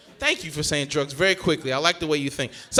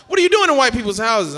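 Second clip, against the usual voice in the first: loud, raised-pitch demand; mock-shocked interrogation, louder; incredulous questioning; 6 semitones higher, 7 dB louder than usual. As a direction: imitate a scandalised granddad. Granddad questions him, acted.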